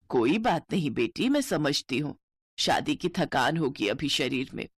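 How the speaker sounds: put-on an older mother-in-law gently scolding the kids.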